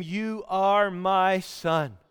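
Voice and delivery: slow, deliberate declaration; God speaking. Acted. God declaring to Jesus who he is, slow and deliberate. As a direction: set each word down slowly. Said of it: "God said to him".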